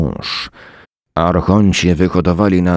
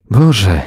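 sigh; 4 semitones higher, 5 dB louder than usual. A narrator's reading. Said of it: "westchnęła".

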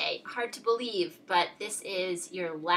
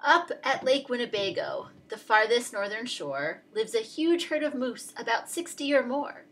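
put-on reading to children. Teacher reads Dr. Seuss to her class, lively storybook voice. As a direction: read it out brightly to a class.

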